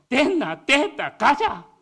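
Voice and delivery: brisk, loud Gyeongsang-dialect bark. Retold or imitated. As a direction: snap it out like a curt Gyeongsang man. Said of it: "경상도는 어때요?".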